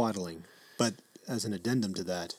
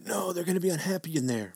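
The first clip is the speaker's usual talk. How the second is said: higher-pitched mock protest; mock-worried objection in a raised voice; mimicked protesting dad; 7 semitones higher than usual. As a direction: imitate a fretting new parent. Mimics the worried new father.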